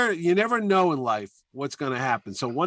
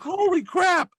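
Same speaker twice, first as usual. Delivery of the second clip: much higher and louder shocked outburst; shocked exclamation; 4 dB louder, slower than usual. Retold or imitated. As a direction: blurt it out, completely floored. Chaykin reacts to the hate remark.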